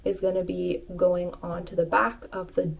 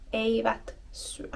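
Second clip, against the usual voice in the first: whisper; 5 dB quieter than usual. Shown as a demonstration. Repeating the phrase as a quiet aside.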